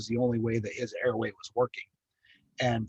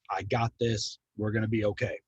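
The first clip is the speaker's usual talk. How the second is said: calm reassurance; 2 semitones lower than usual. Retold or imitated. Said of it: "calm, comfortable".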